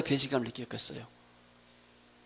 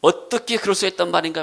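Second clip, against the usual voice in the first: raised, mildly aggrieved question; resentful protest; 4 semitones higher, 4 dB louder than usual. Acted. Brothers grumbling about their father, in raised resentful protest. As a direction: complain in disbelief. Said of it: "하면서 원망하고 불평하고".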